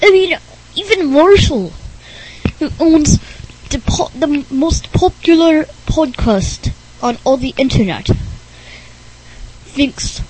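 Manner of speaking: weird, halting character voice; Rick Berner's strange voice. Acted. Oddball explaining why mom is named Bob, strange voice. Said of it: "everyone thinks I talk really, really weird".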